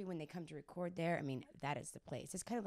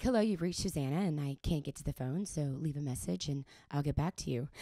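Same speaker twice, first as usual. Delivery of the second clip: mom's voicemail voice; 3 semitones lower, 6 dB louder than usual. Retold or imitated. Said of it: "she has the same voice as I do".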